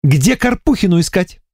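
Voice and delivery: strict voice. A narrator's reading. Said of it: "строгим голосом".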